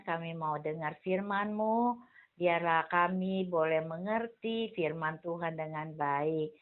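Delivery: hushed classroom prayer. Acted. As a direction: pray quietly with the children. Teacher leads children's prayer.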